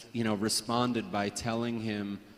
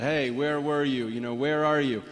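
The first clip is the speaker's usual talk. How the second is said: mildly exasperated, slightly raised call; mock frustration; 3 semitones higher, 4 dB louder than usual. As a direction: imitate a teacher's mild impatience. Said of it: "you know, frustrated, like".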